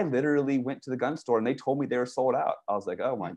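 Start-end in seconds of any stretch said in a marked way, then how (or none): 3.0-3.3 stretched-out mock desperation, much higher; mock panic. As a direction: ham up a desperate plea. Mocking his own gun panic.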